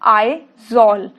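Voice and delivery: usual speaking voice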